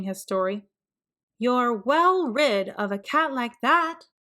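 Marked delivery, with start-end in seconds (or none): 1.4-4.1 a hint of a firm mom; lightly voiced mother. Mother tells Archie to forget the cat, lightly firm. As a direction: reassure him, motherly.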